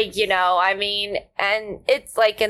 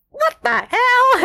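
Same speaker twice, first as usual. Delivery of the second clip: high, slow, shocked outcry; 12 semitones higher, 4 dB louder, slower than usual. Retold or imitated. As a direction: gasp it out, appalled. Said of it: "people go".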